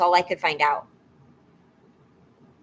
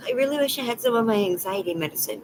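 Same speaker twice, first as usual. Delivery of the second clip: anxious; 5 semitones higher, faster than usual. Real, not acted. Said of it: "my chest is so tight".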